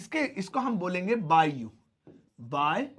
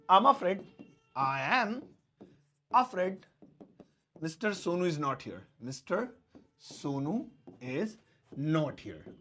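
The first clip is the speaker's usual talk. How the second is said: polite receptionist; 2 semitones lower, 5 dB quieter, much slower than usual. Acted. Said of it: "वो बोलेंगे".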